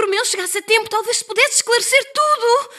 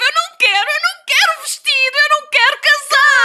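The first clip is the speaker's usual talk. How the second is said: loud, high refusal; upset protest; 8 semitones higher, 7 dB louder than usual. Acted. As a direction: refuse it, getting louder. Refusing the wedding dress.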